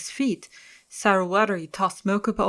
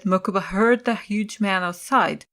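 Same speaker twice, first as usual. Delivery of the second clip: ordinary delivery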